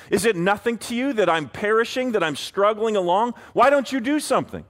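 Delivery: pleading, rising to an exasperated cry; anguished plea. Acted. Acted complaint to God.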